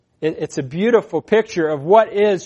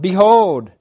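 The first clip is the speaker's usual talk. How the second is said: louder, drawn-out proclamation; raised preacher's cry; calling out; 2 semitones higher, 6 dB louder than usual. Acted. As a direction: call the word out to a crowd. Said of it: "They're calling out".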